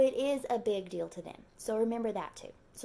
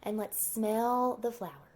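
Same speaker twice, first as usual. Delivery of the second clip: soothing teacher voice. Shown as a demonstration. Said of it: "tell them".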